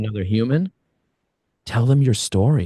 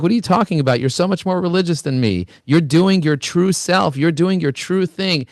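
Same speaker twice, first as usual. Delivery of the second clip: imitating proud father; 6 semitones higher than usual. Son retells his father's proud reply, lightly voiced father.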